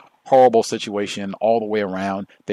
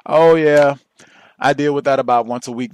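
casual tone; 5 semitones higher, 8 dB louder than usual. Retold or imitated. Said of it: "This was not one of those".

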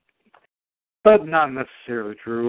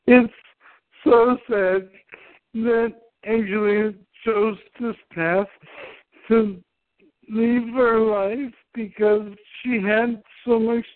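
mock sorrow; 9 semitones higher than usual. Mock eulogy after suicide joke.

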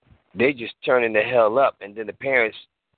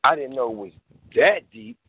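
impressed parent. Retold or imitated. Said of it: "look in the dictionary and say".

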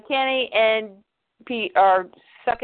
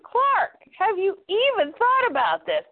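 urgent Pete; 7 semitones higher than usual. Acted. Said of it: "He goes".

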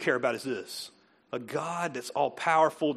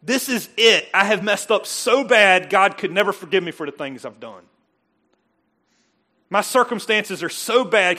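loud, higher, slowed lament of a hopeless person; despairing voice; 5 semitones higher, 10 dB louder than usual. Retold or imitated. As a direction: voice someone who thinks they've failed. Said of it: "It's like".

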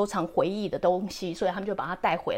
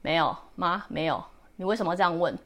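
put-on teen daughter; 4 semitones lower, 3 dB quieter than usual. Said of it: "我女儿就会开始这样，你知道青少年吗".

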